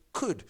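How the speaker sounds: "could" set apart and punched; emphatic, falling "could"; stress on could. Shown as a demonstration. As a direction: deliver "could" as the key word, firmly. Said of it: "the key emphasis on the word is".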